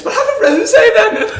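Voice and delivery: high, loud Scouse woman impression; hammed-up Scouse, on the edge of laughing; mock Scouse accent. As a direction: squawk it as a pushy Scouse host. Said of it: "Is that your Scouse accent?".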